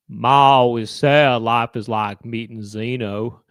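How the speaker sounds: slow, drawn-out mock Gump drawl; lightly put-on Gump voice; Forrest Gump imitation. Doing Forrest Gump for his friend, slow and drawn.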